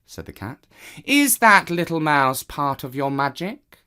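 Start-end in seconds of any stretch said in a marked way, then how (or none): 1.0-3.8 the smug cat claiming his place. Acted. Cat voiced in the story.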